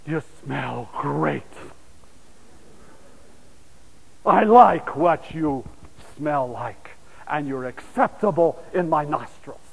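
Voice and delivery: slow, low voice of God; unhurried, lightly voiced God; God speaking. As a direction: savour it slowly, pitched low. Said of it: "the first thing he says is".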